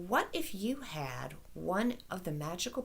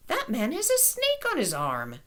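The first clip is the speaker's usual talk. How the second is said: put-on excited child; 4 semitones higher, 4 dB louder than usual. Child excitedly pointing at tattoo.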